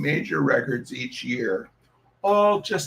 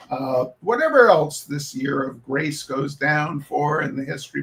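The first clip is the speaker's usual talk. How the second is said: reading aloud. Acted.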